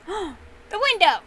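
high, loud, drawn-out shock; gasped exclamation. A narrator's reading. Daddy Bear spotting damage to the house, gasping in shock. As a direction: cry out slowly in alarm. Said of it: "Daddy Bear gasped".

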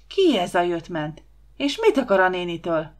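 loud, outraged demands; indignant questioning. Acted. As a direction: demand answers about the intruder. Huba's angry outburst continues.

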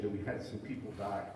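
breathless, quiet delivery; short of breath after speaking. Real, not acted. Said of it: "I'm just out of breath".

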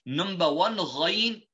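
ghain from the top of the throat; tajweed letter ghain. Shown as a demonstration. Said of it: "two letters which originate from this point".

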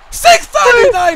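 slow, high shouted move call; excited shout. Real, not acted. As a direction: yell the move name as it lands. Calling a move live.

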